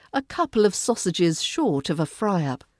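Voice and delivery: mildly jolly, with clear s in "sausages"; like a silly joke at brunch; cheerful intonation. Shown as a demonstration. Teacher telling a silly joke at brunch, lightly cheerful. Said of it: "Use cheerful intonation".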